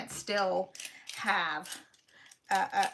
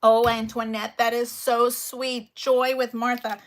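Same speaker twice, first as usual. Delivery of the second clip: excited; 3 semitones higher, 7 dB louder than usual. Real, not acted. Reacting to a sweet viewer comment.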